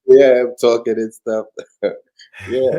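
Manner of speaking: booming and slow; too close to the mic; loud mic voice. Real, not acted. Guest unmuted too loud.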